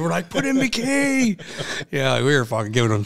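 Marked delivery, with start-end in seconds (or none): 0.3-1.4 high, drawn-out stadium yell; screaming at the player. Retold or imitated. Fan heckling a quarterback, screaming. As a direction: bellow it across the field at him. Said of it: "Fucking screaming".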